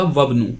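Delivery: वब्नु as one word, vowel of इब्नु dropped; joined reading. Shown as a demonstration. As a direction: run वा straight into ब्नु: वब्नु. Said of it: "तो इसे मिलाकर पढ़ेंगे".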